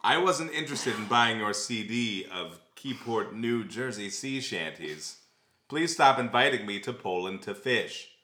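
deliberate read-aloud delivery, lingering on phrases; dramatic ad reading. Acted. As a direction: read the personal ad aloud, measured and theatrical. Reads a posted ad aloud.

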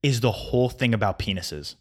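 rising exasperated rant; infuriated. Real, not acted. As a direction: let the anger build through it. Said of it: "infuriates me".

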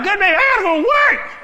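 quick, high, loud excuse through laughter; tired husband laughing his way out the door; laughing plea. Acted. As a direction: beg off, half laughing. Husband pleads to leave for work.

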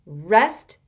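loud scornful rising sneer; mock the very idea. A narrator's reading. Constance sneering at Rainey's suggestion to rest. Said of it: "she sneered".

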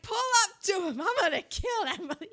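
high, urgent imitation of tearful yelling; mock crying rage. Reviewer mimicking a vengeful crying gunman, high mock-tearful threat. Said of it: "he's just crying".

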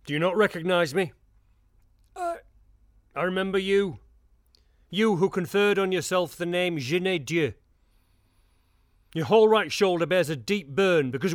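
commanding confrontation. Acted. Confronting the witness in court.

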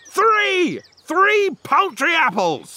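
high, slow indignant exclamation. Acted. Landowner scolding young Newton over apples, indignant. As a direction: stretch out the count in outrage. Farmer berates idle apple picker.

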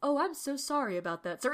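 a hint of a polite gentleman; softly courteous apology; lightly voiced refined monster; refined, well spoken. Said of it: "very refined and very well spoken".

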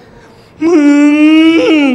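drawn-out aggrieved moan, acted; upset whine. Woman after fighting her husband needs a listener, upset. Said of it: "อันนี้คือทะเลาะกับผัวนะครับ".

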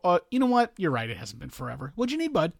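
mock conceding garbage man. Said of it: "Did you expect him to go".

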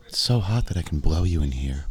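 lightly voiced girl, slow; a hint of a girly voice, drawn out; man doing a woman's voice. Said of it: "do my best impression of a girl".

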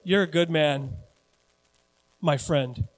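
low, understated mock admiration; mirror self-praise. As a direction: lightly play a man admiring himself in the mirror. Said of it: "he looks in the mirror and he goes".

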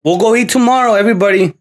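mock bargaining dad. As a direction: bargain with the child, reasonable. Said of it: "be like".

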